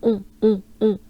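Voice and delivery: un played with, nasal and loud; playful nasal un. Shown as a demonstration. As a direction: have fun with the nasal un. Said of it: "Just have fun with it".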